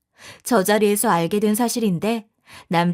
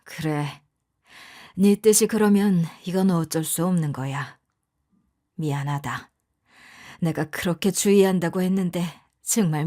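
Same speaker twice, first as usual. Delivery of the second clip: polite apology; 6 semitones lower than usual. A narrator's reading. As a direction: apologize gravely and gently. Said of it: "제게 정중히 사과하셨어요".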